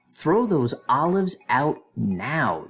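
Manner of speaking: slow, punched-out command; mock-stern demand, drawn out. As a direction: order it word by word, mildly acted. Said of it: "demanded Mona".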